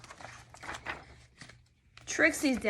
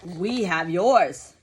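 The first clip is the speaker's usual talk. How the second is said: slow, lower firm answer; daddy's reply; 3 semitones lower, 4 dB louder, slower than usual. Acted. Daddy to the caller, slow firm reply. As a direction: hold your ground, slowly. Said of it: "replied Trixie's daddy".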